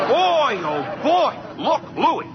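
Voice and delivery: put-on boy oh boy, rising with glee; thrilled at the thought; excited. Postman thrilled at clearing the dead letters, gleeful.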